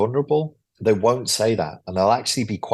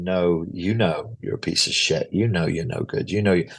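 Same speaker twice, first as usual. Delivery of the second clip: superego voice; 3 semitones lower than usual. Retold or imitated. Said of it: "The other voice, the superego is telling them".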